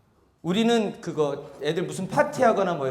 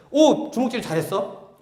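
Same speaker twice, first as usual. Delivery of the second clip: slow praise; slower than usual. Shown as a demonstration. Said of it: "칭찬 중에".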